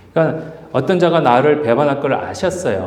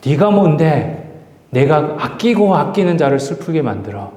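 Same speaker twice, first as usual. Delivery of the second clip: a touch of outrage confronting death; pent-up indignation. Acted. Jesus confronting death for touching his loved ones, understated indignation. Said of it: "완전히 울분이".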